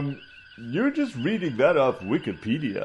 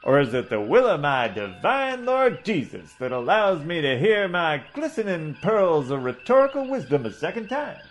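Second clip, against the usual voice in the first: blustering Southern gentleman orator, a touch higher; pompous southern doctor; 5 semitones higher than usual. Acted. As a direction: hold forth like a pompous old Southern colonel. Coburn retorts pompously.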